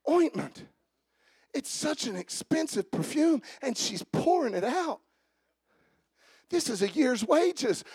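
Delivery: lightly voiced disciples scoffing at the waste; complaining disciples. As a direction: grumble it like a petty critic.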